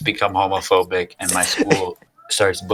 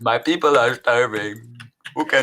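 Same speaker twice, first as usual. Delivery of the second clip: shaky crying voice; 2 semitones higher than usual. Acted. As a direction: quaver it like you're about to cry. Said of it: "a shaky crying voice".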